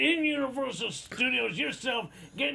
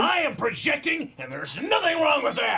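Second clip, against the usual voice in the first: higher, indignant retort; raised anger; 4 semitones higher, 3 dB louder than usual. Real, not acted. Defending himself when told he's venting anger, indignant. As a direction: fire back in protest. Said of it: "taking your raw anger out on me".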